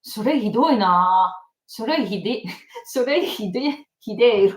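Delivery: lightly hammed-up Saitama delinquent Japanese; Saitama Yankee accent. Shown as a demonstration. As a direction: drawl it like a Saitama Yankee, breaking into giggles. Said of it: "sounds like such a Saitama".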